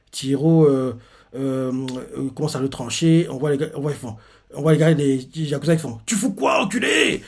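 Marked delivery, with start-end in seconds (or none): 6.1-7.2 insulte lancée très haut et fort; crié. Retold or imitated. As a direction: hurle l'insulte en imitant le yakuza. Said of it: "Il lui crie ça". (cri de yakuza furieux)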